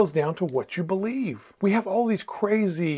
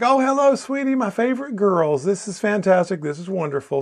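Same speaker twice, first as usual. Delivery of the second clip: delighted grandma; 3 semitones higher than usual. Retold or imitated. Grandma greets on phone.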